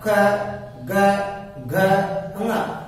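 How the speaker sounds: ख, ग, घ, ङ each said alone from the throat; throat letter demo. Shown as a demonstration. Teacher sounding throat letters ख, ग, घ, ङ for students. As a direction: sound out ख, ग, घ, ङ one by one. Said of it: "वो देखो क".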